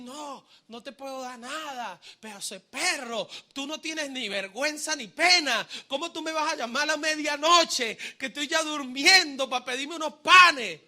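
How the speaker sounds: mock scolding that builds in volume; indignant refusal. Woken friend refusing a midnight request, indignant.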